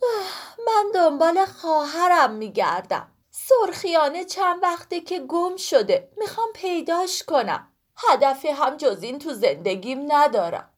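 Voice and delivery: high voice with a tearful sigh; sigh, then tell it with a catch; sighing sad pomegranate. Acted. Sorkhoo sighs to Woolak about her lost sister, tearful. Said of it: "سرخو آهی کشید".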